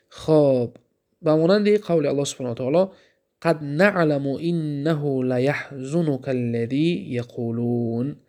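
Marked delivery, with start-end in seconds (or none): 3.4-8.2 slow, measured recital of the verse; slow Quranic recitation. Shown as a demonstration. Teacher recites the verse to students, slow and measured. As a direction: recite each word deliberately, like scripture.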